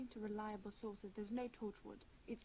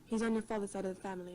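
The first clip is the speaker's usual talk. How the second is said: pushy; 10 dB louder, faster than usual. Acted. Pressing question in interrogation.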